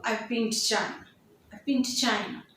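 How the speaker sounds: "been" as bin, "to" reduced to a light t; weakened been and to. Shown as a demonstration. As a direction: run "been to" together as bin-t. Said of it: "You are not going to utter it properly to".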